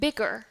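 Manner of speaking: "Bigger" with the final R sounded; American rhotic R. Shown as a demonstration. Teacher repeats last one, American R. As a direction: end "Bigger" on a full "er". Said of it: "In American English".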